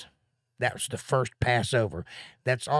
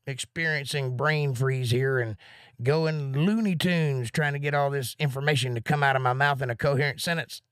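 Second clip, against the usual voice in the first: usual speaking voice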